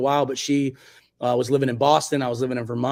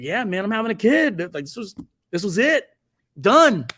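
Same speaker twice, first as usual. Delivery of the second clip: fired-up younger self; 5 semitones higher than usual. Retold or imitated. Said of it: "I was like".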